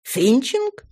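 high, fluttery chatter; gushing lady. Acted. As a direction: gush like a flustered old flame. Flora's gushing speech.

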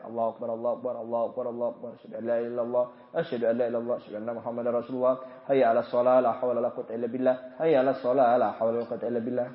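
soft, low, quick murmur of the reply; quiet recited reply. Shown as a demonstration. Preacher shows listeners reciting the whole azan reply quietly after it ends. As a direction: recite it softly to yourself. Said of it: "baru kita aja".

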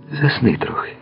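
high, soft falling coaxing; motherly care. A narrator's reading. Girl urging her beloved to sleep, with motherly care. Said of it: "В її голосі озвались не любощі, а материнська турбота".

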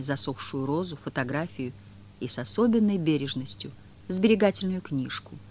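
ordinary delivery

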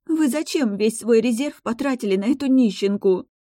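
high, tearful and drawn-out maid's plea; a sobbing maid's drawn-out reproach. A narrator's reading. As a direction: wail it out as the tears start. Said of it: "Всхлипывая, протяжно произнесла Кэти".

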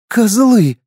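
high sobbing insult; captured girl sobbing at her captors; sobbed. A narrator's reading. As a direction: spit it out through a sob. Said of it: "всхлипнула барышня".

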